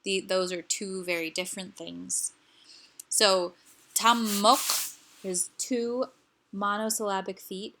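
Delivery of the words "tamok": "tamok" with both syllables stressed; "tamok" as two separate, emphatic beats. Shown as a demonstration. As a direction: hit each syllable of "tamok" equally hard. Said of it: "Both syllables are stressed".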